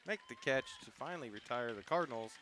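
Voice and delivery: measured softball commentary, words stretched on the action; live play-by-play. Real, not acted. Announcer calls the catch ending the inning, live play-by-play. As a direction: call the play as it unfolds.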